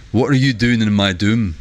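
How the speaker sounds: lightly put-on Scottish accent; a hint of fake Scottish on the quote; half fake Scottish accent. Shown as a demonstration. Streamer showing how the quote was read, half-fake Scottish accent. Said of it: "reading it in a kinda half fake Scottish accent".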